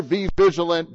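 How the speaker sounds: "be vigilant" as a loud sermon cry; loud proclaimed warning. Shown as a demonstration. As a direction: call out "be vigilant" as a pulpit command. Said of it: "he's warning us".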